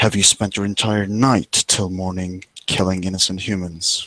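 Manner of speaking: grave, dead-earnest, very serious delivery. Voicing a character questioning another player's character: very serious tone. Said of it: "in a very, very serious tone of, tone of voice".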